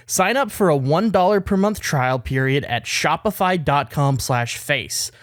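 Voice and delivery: polished, evenly paced sponsor read; measured commercial delivery; podcast ad read. Acted. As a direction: sell it like a host reading sponsor copy. Reads a sponsor ad.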